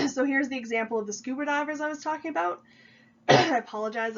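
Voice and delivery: throat-clearing, sniffly with a cold. Real, not acted. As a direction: speak through a lingering cold, sniffling. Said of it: "coughing and sniffling still a little bit today".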